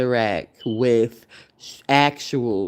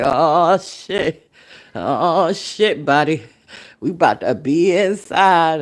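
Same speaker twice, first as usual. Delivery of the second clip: happy dance glee; 2 semitones higher, 4 dB louder, slower than usual. Retold or imitated. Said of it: "doing a little like".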